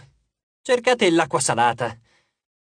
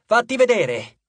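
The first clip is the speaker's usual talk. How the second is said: shouted challenge; 6 semitones higher than usual. A narrator's reading. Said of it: "urlò Jason".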